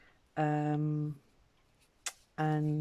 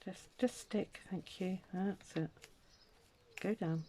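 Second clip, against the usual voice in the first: higher, soft coaxing voice; coaxing the paper; 7 semitones higher, 4 dB quieter, slower than usual. Real, not acted. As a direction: sweet-talk the paper into sticking.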